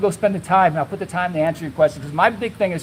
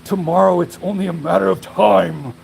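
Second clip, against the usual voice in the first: mock ominous commenter; slower than usual. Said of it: "Somebody else will comment like".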